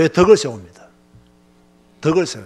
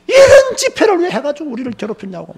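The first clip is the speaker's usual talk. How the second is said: higher-pitched mock whining complaint; griping complaint; 5 semitones higher than usual. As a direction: imitate a grumbling, put-upon churchgoer. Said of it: "욕하면서 내가 지금 귀가 따가워". (투덜대며 불평하는 교인 흉내)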